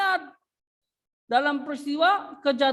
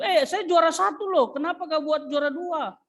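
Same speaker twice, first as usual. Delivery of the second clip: mock-indignant devil, pitched up; offended devil; 4 semitones higher than usual. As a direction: play the insulted devil complaining. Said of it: "dia marah iblis itu".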